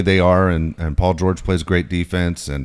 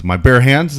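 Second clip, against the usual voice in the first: higher, louder incredulous question; mock disbelief; 6 semitones higher, 7 dB louder, slower than usual. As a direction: imitate someone balking in disbelief. Retold disbelief at the order.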